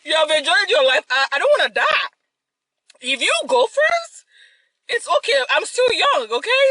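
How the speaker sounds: high, laughing, begging; laughing plea. Real, not acted. Grandchild begging grandma to go first, laughing high. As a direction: squeal it out through laughter.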